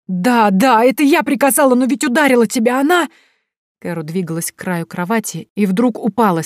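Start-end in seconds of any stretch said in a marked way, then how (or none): 0.1-3.1 loud, high, panicked babble; hysterical confession. A narrator's reading. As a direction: blurt it out in terror. (истеричное признание)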